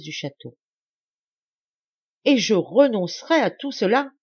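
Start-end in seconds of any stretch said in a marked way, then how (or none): 2.2-4.1 a loud, higher cry of despair; anguished outcry. A narrator's reading. Lacheneur cries out alone in his salon before his daughter, loud and anguished. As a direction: cry out against losing it all. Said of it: "s'écria-t-il enfin".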